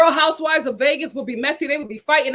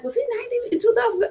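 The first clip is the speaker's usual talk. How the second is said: retold shock; 11 semitones higher, 5 dB quieter, much faster than usual. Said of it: "I was like".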